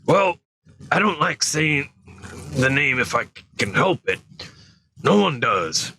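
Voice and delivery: hesitant giant reluctant to begin, voice lifted; Hagrid voice. Acted. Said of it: "trying not to do the southern accent".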